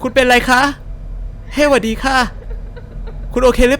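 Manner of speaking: put-on high-pitched polite young woman; polite lady character. Streamer voicing a woman asking the crying girl, high and girly. Voices female game character.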